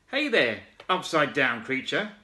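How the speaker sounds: high calling shout; frog shouting. Acted. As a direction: call up to the upside-down creature. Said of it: "shouted the big wide-mouthed frog".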